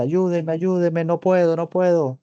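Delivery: a touch of a frantic patient begging; mild mock cry for help. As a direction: echo her desperate plea, only half-acted. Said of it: "y grita".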